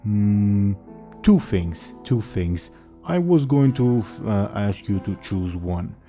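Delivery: slow, dim-witted ogre bellow; dopey cartoon bellow. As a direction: boom it out like a simple ogre. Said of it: "the ogre says".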